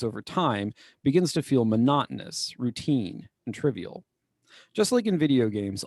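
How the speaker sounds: measured formal read-aloud. Acted. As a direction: read it like a serious article quote. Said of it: "So this person has to say".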